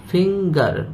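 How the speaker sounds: FINGER as two beats, "फिंगर" split fing-gar; syllable by syllable. Shown as a demonstration. Teacher showing learners two syllables, "फिंगर" split fing-gar. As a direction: sound out "फिंगर" in two drawn-out parts. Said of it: "एक फिंग है, दूसरा गर है".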